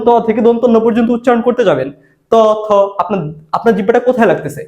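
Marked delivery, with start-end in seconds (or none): 2.3-2.7 ত, থ with the tongue against the teeth; dental consonants. Shown as a demonstration. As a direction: demonstrate ত, থ, tongue touching the teeth. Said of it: "দাঁতে লাগতেছে". (ত, থ দাঁতে জিহ্বা লাগিয়ে উচ্চারণ)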